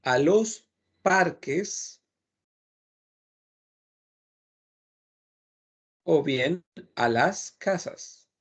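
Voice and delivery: "a los parques" and "a las casas" said very slowly; slow model phrases. Shown as a demonstration. Teacher drills "a los parques" slowly for students. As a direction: stretch each phrase out for learners. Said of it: "podríamos decir".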